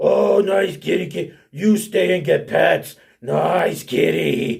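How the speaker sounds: rough, creaky monster voice of a hill giant. Voicing a hill giant who grabs a cat: hill giant voice. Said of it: "you hear this hill giant inside go".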